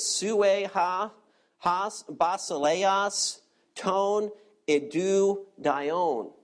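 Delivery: reading the Greek words syllable by syllable; careful Koine Greek recital; Greek pronunciation. Shown as a demonstration. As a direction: sound out the Greek wording slowly. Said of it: "the Greek wording goes like this".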